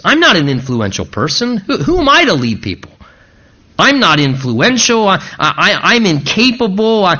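lightly acted protest, tripping over each "I"; a touch of flustered inadequacy; insecure Gideon. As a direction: stammer through a list of self-doubts. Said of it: "struggling with what? His own insufficiency".

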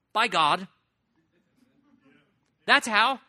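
emphatic proclamation. Real, not acted. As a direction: proclaim it with full conviction. Preacher's emphatic answer, loud and high.

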